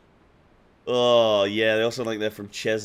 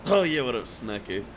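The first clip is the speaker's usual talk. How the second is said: mock English accent. Streamer mimics the game's English accent, mock English. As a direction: toss it off in a jokey English accent. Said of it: "we all sound like this".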